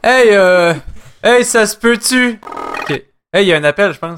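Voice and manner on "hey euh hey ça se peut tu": high, loud complaining caller; new caller voice. Acted. Caller butts in on the hosts, high put-on complaining voice. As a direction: drag it out in a raised character voice. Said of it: "je vais essayer une autre voix".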